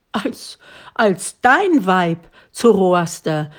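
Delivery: put-on an old father stammering at unexpected news; stammering disbelief. A narrator's reading. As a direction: stumble over it as if you misheard. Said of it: "rief der Alte, der glaubte, nicht richtig verstanden zu haben".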